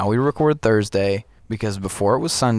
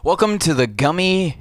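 slow welcome; 6 semitones higher than usual. Acted. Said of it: "talk quietly for small children".

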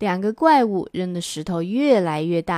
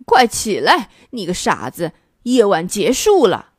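louder roar through the hole; 4 dB louder than usual. Acted. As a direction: bellow it out crossly. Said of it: "对着洞口大吼".

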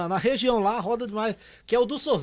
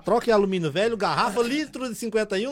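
cotton candy vendor call. Retold or imitated. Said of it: "Eu falava assim, ó".

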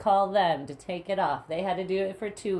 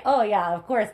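mock sarcastic; 5 semitones higher, 4 dB louder, faster than usual. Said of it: "I was like".

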